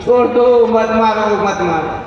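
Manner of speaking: high plea sinking as it repeats; frightened Kaliyug. Acted. Kaliyug pleads with the king, acted fear tailing off. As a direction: start high, begging, then fade. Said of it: "भयभीत हो गए".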